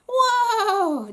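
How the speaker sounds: loud, high whoa to stop them; loud placating shout; calming cry. Acted. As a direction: call out to halt the guards. Dad steps forward, hands raised.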